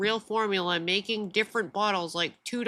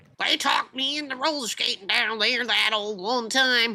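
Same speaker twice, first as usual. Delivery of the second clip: put-on rural accent; 3 semitones higher than usual. Telling a story to a listener, the speaker repeats a sentence in a redneck voice. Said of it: "That's a redneck voice".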